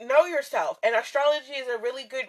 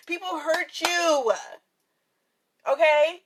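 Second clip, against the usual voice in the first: slow, drawn-out mock wail on "you"; on the verge of tears, laughing it off; half-joking tearful; 3 semitones higher, slower than usual. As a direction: stretch "you" out like a playful sob. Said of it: "I'm gonna cry right now".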